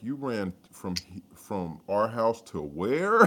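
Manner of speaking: mock-astonished question, rising on the last word; incredulous. Retelling amazement at dad's long run, incredulous. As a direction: draw out the disbelief, playfully.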